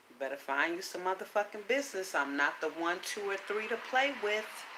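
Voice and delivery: quiet, even, unbothered warning; calm warning. Retold or imitated. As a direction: say it calmly, no heat at all. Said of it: "So I can just calmly say".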